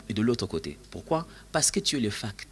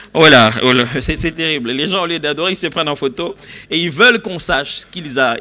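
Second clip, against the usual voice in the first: amused exasperation; 5 semitones higher, 11 dB louder than usual. Real, not acted. Laughing commentary on worship selfies.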